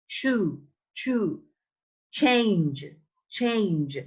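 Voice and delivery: "chew" and "change" starting with "tch"; model CH words. Shown as a demonstration. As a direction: repeat "chew, change" as separate falling drill words. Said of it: "the sound is ch".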